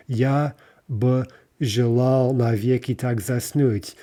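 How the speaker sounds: slow read with "бы" set apart and its own "ba" vowel; wrong, separate word. Shown as a demonstration. Teacher showing the tempting wrong reading. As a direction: pause after "Я" and voice "бы" apart. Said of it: "which again would introduce a vowel".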